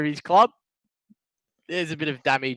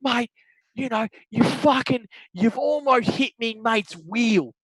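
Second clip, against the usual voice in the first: mock angry yelling; 6 semitones higher, slower than usual. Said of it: "Starts going again".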